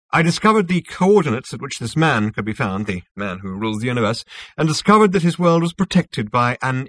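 lightly voiced self-assured official; smug Zarniwoop, explaining. Zarniwoop explains his synthetic universe to Zaphod, lightly smug. Character dialogue in narration.

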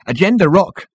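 high, lilting quip; happy trill. A narrator's reading. Hairdresser corrects the girl, trilling happily. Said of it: "trilled the hairdresser happily".

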